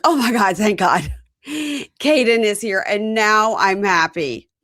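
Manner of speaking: mock overjoyed relief; gushing relief. Mother seeing her son is here, gushing relief.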